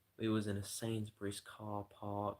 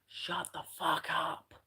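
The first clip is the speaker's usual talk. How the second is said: loud, higher, slow furious yell; yelled shut up; 6 semitones higher, 6 dB louder, slower than usual. Retold or imitated. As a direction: bellow it as loud as you can. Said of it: "as loud as I possibly could".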